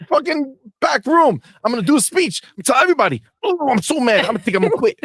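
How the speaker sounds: high, whiny mock meltdown; over-the-top high-pitched crybaby rant; crying quitter. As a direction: play a teammate throwing a sobbing tantrum. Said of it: "crying, crying".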